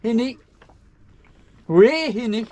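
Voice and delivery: bad high Geordie accent. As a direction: attempt a Geordie accent, badly. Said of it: "My Geordie accent is appalling".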